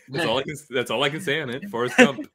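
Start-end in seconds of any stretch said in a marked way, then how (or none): 1.7-2.3 laughing through the title. Real, not acted. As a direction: say it while cracking up. Repeats the title while laughing.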